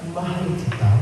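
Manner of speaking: cold, soft "Mahal kita"; a lightly voiced bored reply; flat. Shown as a demonstration. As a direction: say "Mahal kita" dull and uninterested. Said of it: "Kaysa doon sa".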